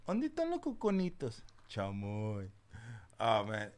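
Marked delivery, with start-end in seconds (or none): 0.1-1.4 high put-on comedian voice; silly comedian voice. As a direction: play the goofy comedian. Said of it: "And then he's like".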